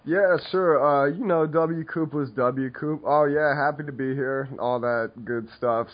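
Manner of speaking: sick, slightly shaky throat voice; quivery throat. Real, not acted. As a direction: talk through a sore, quivery throat. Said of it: "I have a little quiver in my throat today".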